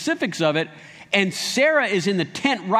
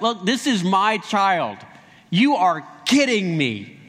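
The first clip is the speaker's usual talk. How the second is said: slow, deliberate retold protest; sobered-up insistence; slower than usual. Sarah claiming the child as hers, sobered, emphatic. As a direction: act composed after laughing, words spaced out. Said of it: "then she sobers up enough".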